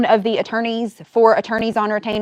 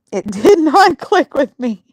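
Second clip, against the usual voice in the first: higher, laughing stress on DID NOT; laughing emphasis; 6 semitones higher, 4 dB louder than usual. Real, not acted. Host admitting a missed joke to viewers, laughing. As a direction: repeat it emphatically through real laughter. Repeats it, cracking up.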